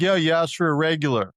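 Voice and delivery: brusque counter worker. Retold or imitated. Coffee worker to customer about the order, brusque.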